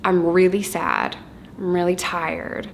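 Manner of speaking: slow, calm naming of each feeling; calm labelled feelings. Retold or imitated. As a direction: model the words a child learns to say. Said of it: "they know how to say".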